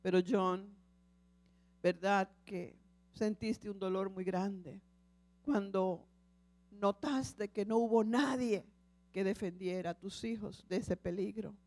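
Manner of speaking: lightly voiced Lord speaking tenderly. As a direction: speak as a patient, loving God. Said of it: "la voz del Señor".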